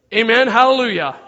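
loud, rousing mock congregation cheer; crowd's hallelujah cheer. Campers cheer the revenge plan, loud hallelujah shout. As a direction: belt it out like a whole crowd.

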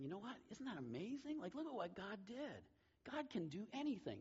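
retold amazement, pitched high; imitated amazed mother. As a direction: marvel as if teaching a small child. Mother retold teaching amazed child.

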